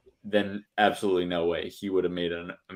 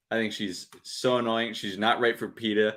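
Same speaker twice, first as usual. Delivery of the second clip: put-on Boston accent. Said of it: "I just said that in a Boston accent".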